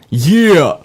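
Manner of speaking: high, loud comic yell; Andy Samberg. Acted. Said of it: "the words of Andy Samberg".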